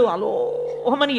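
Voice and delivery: long-drawn mock howl; mild storyteller's imitation of bawling; imitated child's wailing. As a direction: mimic a crying boy with a stretched vowel. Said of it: "ఏడుస్తూ అమ్మ దగ్గరికి".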